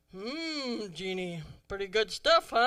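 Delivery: playful teasing aside to daughter. Retold or imitated. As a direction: tease her about the cute waiter. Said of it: "like that, you know".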